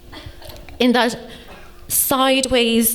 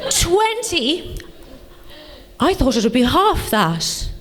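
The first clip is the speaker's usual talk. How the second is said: mock-posh English disbelief; posh boyfriend; slower than usual. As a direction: imitate a posh boyfriend taken aback. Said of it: "he's awfully posh".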